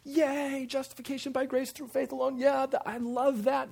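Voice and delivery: high, loud gushing cheer, hammed-up; mock enthusiasm. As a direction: cheer like an over-keen fan. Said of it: "The thing you should be thinking is not".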